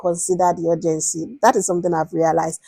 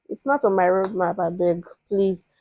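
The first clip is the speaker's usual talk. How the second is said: dismissive brush-off; 6 dB quieter than usual. Shown as a demonstration. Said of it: "That's a very bad response".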